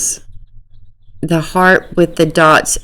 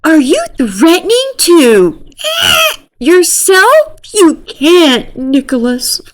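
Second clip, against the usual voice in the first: higher, louder mock sobbing plea; hammed-up crying shout; fake crying; 12 semitones higher, 3 dB louder than usual. Girl begging Nick not to hurt himself, fake crying shout. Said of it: "I can't do the fake laugh and cry thing".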